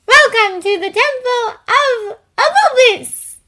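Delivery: slow, nasal, mock-dramatic voice; mock dramatic announcer. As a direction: overdo the grand welcome, nasally. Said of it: "nasally and mockingly dramatic".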